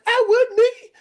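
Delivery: high, loud eager reply; eager volunteer. Retold or imitated. Eager prospect answering the text. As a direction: shout back eagerly, high. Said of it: "they're like".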